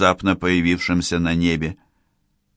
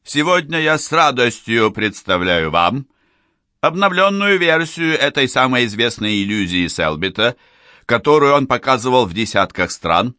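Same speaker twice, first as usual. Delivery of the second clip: booming circus ringmaster. Acted. Showman introduces the illusion.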